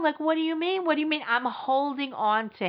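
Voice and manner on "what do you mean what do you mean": panicked pleading. Retold or imitated. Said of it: "absolutely freaking out".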